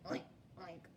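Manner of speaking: a gentle little oink oink; pig oinks. Acted. Teacher voicing the pig for her class, soft oinks. Pig voiced in picture book.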